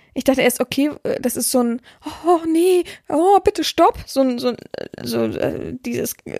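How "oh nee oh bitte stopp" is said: mock whining. Retelling how someone cried during a session: imitating whimpering and moaning. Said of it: "wimmern, jammern".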